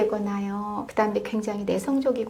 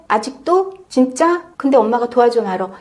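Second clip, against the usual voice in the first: nasty nagging; 6 dB louder than usual. Retold or imitated. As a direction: needle the child with scornful questions. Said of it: "이렇게 기분 나쁘게 말라는 거죠".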